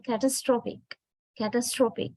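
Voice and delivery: catastrophic with the weight on STRO; stress on third syllable. Shown as a demonstration. Teacher shows students the adjective, catastrophic stressed on STRO. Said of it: "it is the third syllable that is stressed".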